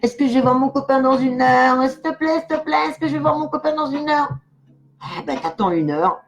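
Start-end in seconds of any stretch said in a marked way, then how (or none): 0.0-4.3 higher, begging, a little breathless; lightly mocking a viewer who begs for an answer; mock pleading viewer. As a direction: ham up an impatient fan who needs an answer right now. Viewer's impatient question mocked.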